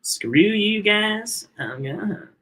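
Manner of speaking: high, very slow cartoon squeal; Cartman. Repeating the cartoon impression for a co-host, high drawn-out squeal. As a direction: squeal it like a little pig, long and loud at first. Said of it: "high-pitched squeal voice".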